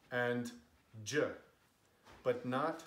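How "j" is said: J voiced alone as "juh"; soft G sound. Shown as a demonstration. Teaching what G can be, soft J sound. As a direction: say J as the j sound of gem. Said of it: "So G can be".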